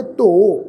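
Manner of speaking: ਧੋ as a long open "o", final u silent; ਧੋ in one long syllable; correct pronunciation. Shown as a demonstration. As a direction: draw out the o of ਧੋ and add no "hu". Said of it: "ਪਾਠ ਉਚਾਰਨ ਕਰਾਂਗੇ".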